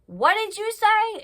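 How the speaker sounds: slow, rising to a high, stunned "what did you say"; imitating Cheyenne who can't believe her ears; mock outrage, drawn out slowly; incredulous demand. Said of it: "Cheyenne's still like".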